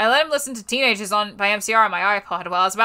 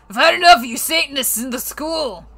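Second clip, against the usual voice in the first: shouting; 4 semitones higher, 4 dB louder than usual. Acted.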